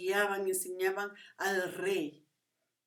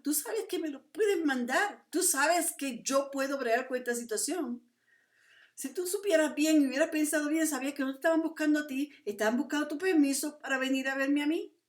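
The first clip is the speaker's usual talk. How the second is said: indignant rebuke; 5 semitones higher than usual. Acted. Prophet's rebuke to the king, acted.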